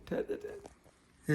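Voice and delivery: soft, slow, high coaxing to a pet; hushed coaxing. Real, not acted. Coaxing the parrot to wait, hushed and slow. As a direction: hold it softly, stretched out.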